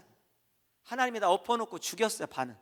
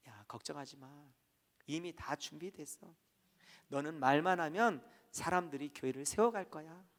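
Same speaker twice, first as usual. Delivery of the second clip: reassuring God; 3 semitones lower, 5 dB quieter than usual. Retold or imitated.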